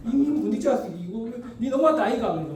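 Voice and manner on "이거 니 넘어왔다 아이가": Gyeongsang dialect. Retold or imitated. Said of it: "거기 사투리로 조금 말씀드리면".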